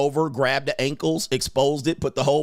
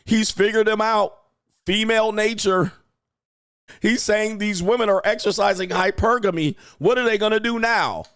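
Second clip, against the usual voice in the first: mock amazement; 6 semitones higher than usual. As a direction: hype it up like a breathless fan. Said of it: "the world would be, like, shocked".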